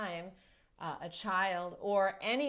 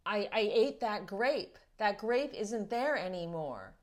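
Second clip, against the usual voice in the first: put-on a touch of a wailing little boy, a little louder; upset toddler; 6 dB louder than usual. Father retelling how his son cried over the eaten grape, lightly voiced upset toddler.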